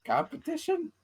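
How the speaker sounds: surprised question. Real, not acted. Puzzled echo of the word.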